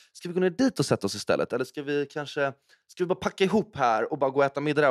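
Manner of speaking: quick, restless run of suggestions; lightly acted stress, rushed; stressed host. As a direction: imitate a host who can't settle, hurrying along.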